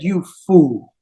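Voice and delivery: put-on low, contemptuous put-down from the old nurse; scornful nurse. Old nurse Manthara scorns the queen, low and contemptuous. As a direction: spit it out with contempt.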